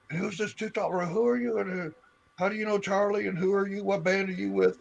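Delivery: high-pitched mock questioning; imitating a nosy security guy. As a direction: pitch it way up, pestering the stranger. Security grilling him at the door.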